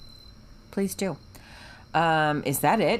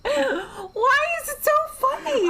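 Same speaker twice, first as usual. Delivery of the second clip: laughing protest; 4 dB louder, slower than usual. Real, not acted. Laughing hard at the bye.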